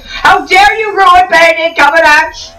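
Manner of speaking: high, slow, offended fan voice; mock outraged fan. Angry fans scolding the vlogger over Cumberbatch, in a high, slow, offended voice. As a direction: play a scandalized fan clutching pearls. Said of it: "people are probably gonna be mad at me".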